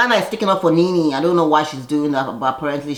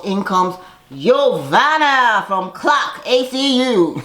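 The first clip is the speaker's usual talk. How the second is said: announcer intro; 4 semitones higher, much slower than usual. Pretend. Announcing a guest's entrance.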